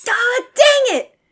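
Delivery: high, loud, drawn-out groan of defeat; exasperated outburst. Real, not acted. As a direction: blurt it out in playful frustration. Mock exasperation at wrong guess.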